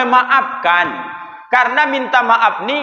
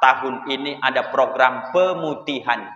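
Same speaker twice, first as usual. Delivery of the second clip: mock public announcement; 8 semitones lower, 3 dB quieter than usual. Preacher mimics the tax office announcing amnesty in an official tone. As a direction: read it out like a district office notice. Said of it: "Samsat Ujung Batu mengumumkan".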